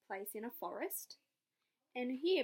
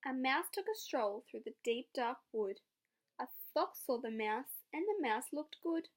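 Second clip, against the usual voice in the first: lively read-aloud to a class; story narration. Acted. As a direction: tell it like a picture book for kids.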